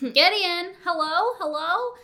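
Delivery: loud, high phone call-out; hammed-up calling into a dead line. Elle calling Gideon as the call drops, acted calling out.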